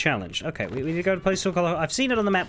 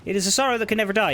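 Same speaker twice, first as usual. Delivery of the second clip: fast, higher, hurrying through the line; rushed reread; 7 semitones higher, much faster than usual. Shown as a demonstration. Gamer rereading the lore book fast after being interrupted. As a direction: rattle it off to get past the interruption. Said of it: "but shut up".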